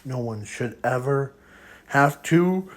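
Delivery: soft, held-back line; quiet. Acted. Zuko quietly addressing All for One before the roar. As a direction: say it softly, holding the power in. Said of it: "quietly says".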